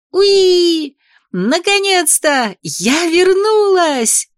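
high, loud, slow joyful squeal. Acted. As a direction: shriek with delight at being human again. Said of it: "завизжала от радости".

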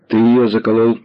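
ordinary delivery

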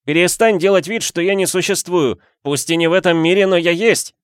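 high, loud blurted outburst; irritated outburst. A narrator's reading. Ghost angrily demanding the count stop ignoring him. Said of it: "раздражённо выпалил Флинн".

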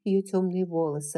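ordinary delivery, nothing marked

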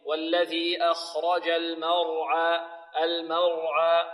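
slow, level chant, thick r in "المرعى"; heavy between light. Shown as a demonstration. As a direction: recite "المرعى" drawn out, light m, heavy ra, light ayn. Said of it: "مفخم بين مرققين".

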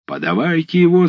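высокий нетерпеливый выкрик; потребовать пленника немедля; крик. Acted. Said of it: "закричал голова". (голова нетерпеливо кричит на десятских)

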